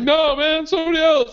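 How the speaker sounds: high, loud mock excuse; panicky denial, acted. Student fibbing to campus police, mock high-pitched denial. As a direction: blurt a far-fetched denial up high.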